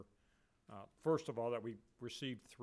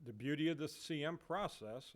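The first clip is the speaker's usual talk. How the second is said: "beauty" pushed louder and higher; stress on beauty; 4 semitones higher, 4 dB louder than usual. Real, not acted. Manager touting the C M process to the questioner, stressing "beauty". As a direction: punch the word "beauty" with raised pitch. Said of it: "I'll emphasize the word beauty".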